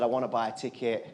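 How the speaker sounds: low, earnest reply; soft-spoken retold confession; quiet sincerity. Boy earnestly insists on paying.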